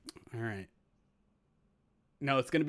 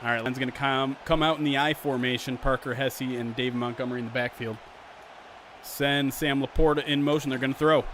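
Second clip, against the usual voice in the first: louder, brisk sportscaster call of the kickoff return; play-by-play commentary; 4 dB louder than usual. Acted. Streamer calling the Madden sim to viewers, announcer style.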